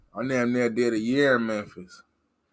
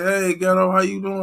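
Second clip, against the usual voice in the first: mock fan greeting; 5 semitones higher than usual. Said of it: "you supposed to say".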